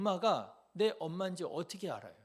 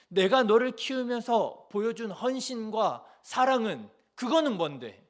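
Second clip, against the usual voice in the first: angry parent; 3 semitones higher, 6 dB louder than usual. Acted. Mother scolding a child who demands proof, loud and furious.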